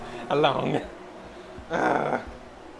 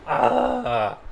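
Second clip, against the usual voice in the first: loud exasperated "ugh"; loud, fed-up groan; frustrated groan; 7 dB louder than usual. Real, not acted. Cannot find kitchen utensils, frustrated.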